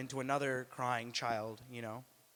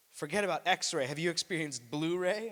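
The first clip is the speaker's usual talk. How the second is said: louder, higher sales pitch; salesman Superman; 4 semitones higher, 6 dB louder than usual. Retold or imitated. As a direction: pitch it proudly. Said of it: "he's like".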